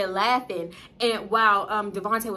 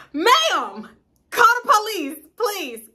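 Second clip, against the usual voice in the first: higher and louder hammed-up cry for help; mock plea; 12 semitones higher, 6 dB louder, slower than usual. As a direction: beg someone to call the cops, half joking.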